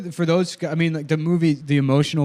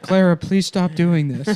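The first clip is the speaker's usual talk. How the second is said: slow, higher pleading father; Tom Skerritt; 5 semitones higher, slower than usual. Acted. Drunk father begging daughter to stop, slow mock plea. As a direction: wearily plead as a drunk film dad. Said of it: "It's just fucking Tom Skerritt drunk".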